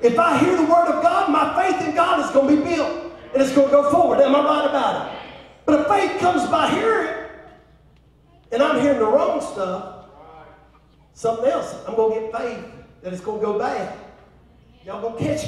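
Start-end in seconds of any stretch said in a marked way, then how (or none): 0.0-9.9 loud, emphatic preacher delivery; forceful preaching. Real, not acted. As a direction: drive each phrase home to the congregation.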